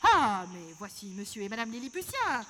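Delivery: a lightly voiced turkey host, inviting. Turkey host calls the fake Lilliputians to the stage, lightly voiced. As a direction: coax them onto the stage, host style.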